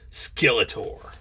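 slow, hushed villain reveal; dramatic whisper. Pretend. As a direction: breathe the name out slow and ominous.

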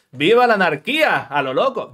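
loud, mock rallying cry; mock rebel cheer. Teacher mocking students who skip types, loud cheer. Mocking lazy coders' attitude.

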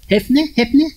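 high, loud, rising question; calling out. Real, not acted. Preacher calls the question out to the congregation. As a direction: call it out to the crowd.

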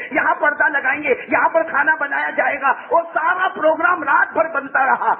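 high, insistent sermon storytelling; impassioned preaching. Acted. Preacher describing a couple's sleepless night of planning, high and eager. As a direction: keep the excitement up, phrase on phrase.

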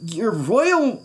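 put-on high, alarmed page boy; fearful. A narrator's reading. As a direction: question it in rising dread. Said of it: "Bartholomew shivered".

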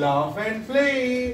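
very slow, drawn-out reading; slow teacher demonstration; slow model reading. Shown as a demonstration. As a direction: stretch each word for the class to copy. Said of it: "teacher models the line".

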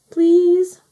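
high, loud drawn-out plea; begging. A narrator's reading. Rag asking Mother Hen to come inside, begging. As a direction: plead like a little one. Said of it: "begged Rag".

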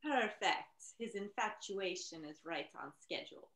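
put-on scheming mother with a Russian accent. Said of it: "That was a great Russian accent".

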